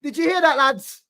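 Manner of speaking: high-pitched mocking voice; put-on falsetto jeering; gleeful mockery. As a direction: tease them in a silly high voice. Mocking the clip after laughing.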